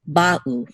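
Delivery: ba'u with the accent on ba; stress on first syllable. Shown as a demonstration. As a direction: lean on "ba", let the u of ba'u fall away. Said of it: "this is where the accent mark is".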